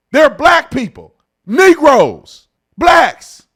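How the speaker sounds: slow, loud mock sports-show rant; lightly hammed-up TV pundit building to a yell. Mocking Stephen A on TV.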